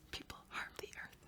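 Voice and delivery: put-on soft whispered child's reply; whispered student answer. Pretend pupil answering the teacher, whispered.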